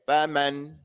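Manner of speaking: "faman" with two full, equal open a's; correct vowel length. Shown as a demonstration. Teacher shows what you have to say, correctly pronounced. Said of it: "You have to say".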